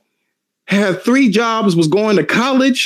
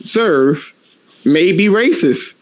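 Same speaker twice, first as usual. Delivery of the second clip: mock calm mother. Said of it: "She was like".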